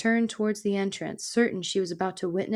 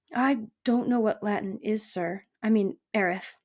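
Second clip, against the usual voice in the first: timid little mouse; 2 semitones higher than usual. Acted.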